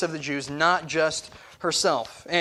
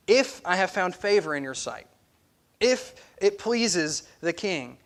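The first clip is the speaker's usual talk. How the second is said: respectful plea. Retold or imitated. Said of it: "she's respectful in the way that she says it".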